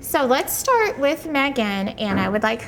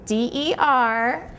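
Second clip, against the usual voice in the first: staccato. Shown as a demonstration. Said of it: "you do it syllable by syllable".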